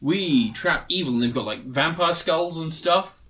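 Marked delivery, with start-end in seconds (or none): 0.0-1.1 grand welcome. Retold or imitated. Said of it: "he goes".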